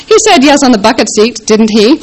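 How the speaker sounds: bickering. A narrator's reading. Married couple bickering over minivan seats.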